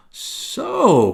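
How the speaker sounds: sudden loud outcry; crying out. A narrator's reading. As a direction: call it out sharply. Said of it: "cried Silver".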